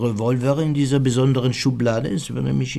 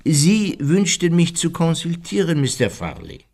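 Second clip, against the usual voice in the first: cool; 5 semitones higher than usual. Acted. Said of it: "Er wiederholte noch mal kühl".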